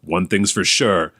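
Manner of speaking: dramatic movie-trailer announcer read; hammed-up announcer, slowing into the final line. Shown as a demonstration. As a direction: punch it out like an action blurb, pausing between beats. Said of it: "in his announcer voice".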